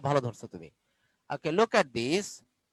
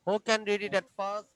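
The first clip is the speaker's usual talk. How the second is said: very slow, drawn-out question; slow classroom question; much slower than usual. Shown as a demonstration. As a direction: stretch each word for young pupils. Teacher asking class slowly.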